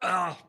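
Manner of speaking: choking cough on water. Real, not acted. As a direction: gag as water goes down wrong. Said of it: "That water went down the wrong pipe".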